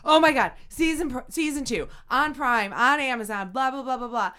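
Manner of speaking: excited. Retold or imitated. Retold excited announcement.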